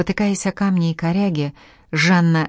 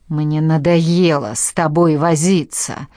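slow, louder hissed threat; menacing hiss; 4 dB louder, slower than usual. Acted. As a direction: drag out the threat, hissing. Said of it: "шипел он".

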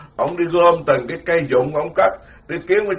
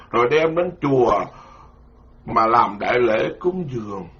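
slow, measured scripture reading; sutra reading; slower than usual. Acted. Monk reads scripture to listeners, slow and measured. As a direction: read the sutra text slowly to the congregation.

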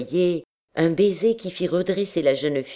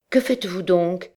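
put-on higher, mildly startled girl; sharp, lively question; 5 semitones higher than usual. A narrator's reading. Girl pulled from her reverie by his hand, mildly startled. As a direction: break in briskly, pitch lifted. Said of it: "dit-elle vivement".

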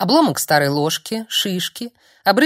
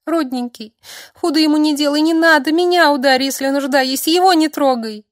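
much higher, louder desperate wail; frantic girl begging Olst to spare Donatos; shrieking plea; 9 semitones higher, 5 dB louder than usual. Acted. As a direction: beg in panic, sobbing. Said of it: "вереща".

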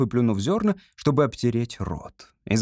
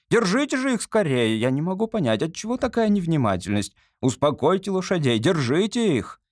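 indignant lady; 2 semitones higher than usual. Acted. Society lady scolding her coachman over the horses, indignant.

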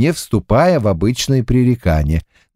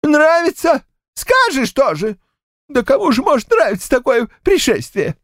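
put-on high, huffy old man's voice, much higher; indignant old man. A narrator's reading. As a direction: bristle like an offended grandad. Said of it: "возмутился дед Щукарь".

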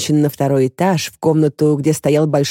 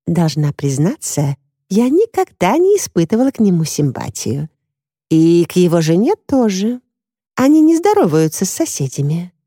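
chatty neighbour Brenda; 2 semitones higher than usual. Acted. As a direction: play a neighbour eagerly reporting what she saw.

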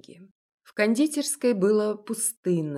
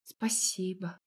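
quiet thanks; 6 dB quieter, slower than usual. Acted. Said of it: "тихо ответила Маша".

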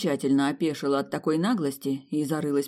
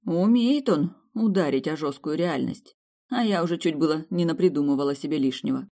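usual speaking voice

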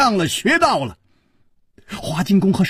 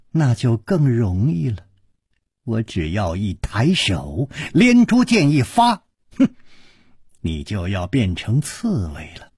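angry threat; 6 semitones lower than usual. Acted. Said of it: "怒道".

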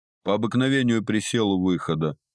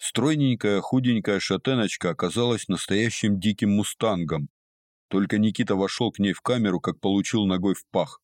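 ordinary delivery, nothing marked

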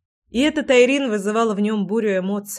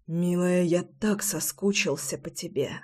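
whispering; 2 semitones lower, 7 dB quieter than usual. A narrator's reading. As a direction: whisper it tenderly, close. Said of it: "шептал Дамьен".

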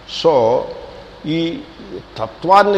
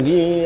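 mock violin note sung out in a syllable; imitated violin screech; 2 semitones higher than usual. Lecturer mimicking the violin after a storyteller's line, imitated violin. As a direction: mimic a bowed violin cutting in. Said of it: "ఇప్పుడు వెంటనే violin".

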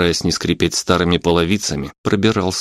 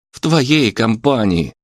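higher, slow indignant retort; drawn-out, heated reply; angry retort; 5 semitones higher, slower than usual. A narrator's reading. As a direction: throw it back angrily. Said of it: "разозлился Лёша".

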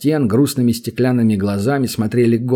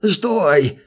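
higher, desperate plea; pleading; 6 semitones higher than usual. A narrator's reading. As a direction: beg him to stay. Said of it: "взмолился гоблин". (гоблин умоляет эльфа остановиться)

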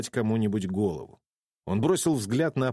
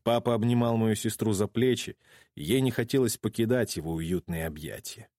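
ordinary delivery

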